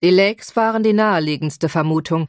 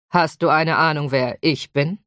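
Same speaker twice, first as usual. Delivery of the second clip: calm; 2 semitones lower than usual. Acted. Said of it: "fragte Stone gelassen".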